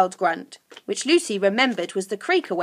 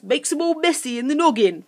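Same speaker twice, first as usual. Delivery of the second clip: higher-pitched creature explanation; helpful creature Sniff; 6 semitones higher, 3 dB louder than usual. A narrator's reading. Sniff explaining the dust to Lucy, helpfully. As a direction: state it knowingly in a creature voice. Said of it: "said Sniff helpfully".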